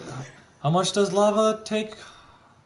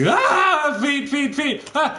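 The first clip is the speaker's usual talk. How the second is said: laughing yelp; 10 semitones higher, slower than usual. Acted. Feet burning, laughing.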